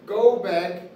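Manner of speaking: teacher demonstrating a firm request. Shown as a demonstration. Firm teacher demo. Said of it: "Okay, once again".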